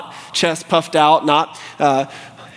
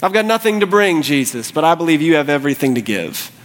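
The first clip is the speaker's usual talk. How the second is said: subdued plea. Acted. Leper's prayer repeated, settling down.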